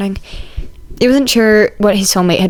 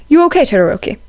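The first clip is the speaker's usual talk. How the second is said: put-on higher, polite young man; earnest formal student; Ida voice; 6 semitones higher than usual. A narrator's reading. Ida checks on Shoto.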